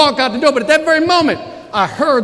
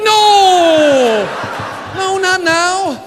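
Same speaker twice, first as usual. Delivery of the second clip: much higher, louder desperate no; frantic shout; 10 semitones higher, 4 dB louder, much slower than usual. Retold or imitated. Salesman begging the DJ not to stop, shouting. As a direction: cry out as the music cuts. DJ stops music at worst moment.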